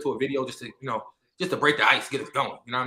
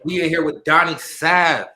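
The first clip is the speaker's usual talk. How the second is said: hype introduction; 2 semitones higher, 5 dB louder, slower than usual. Acted. Introducing guest, hype announcer.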